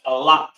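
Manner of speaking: "Allah" as ah-LAH; pronounced "Allah". Shown as a demonstration. Teacher gives the letter's name to repeat, sounding out "Allah". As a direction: model "Allah" with an open final LAH. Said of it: "It's pronounced".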